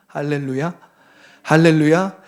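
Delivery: ordinary talk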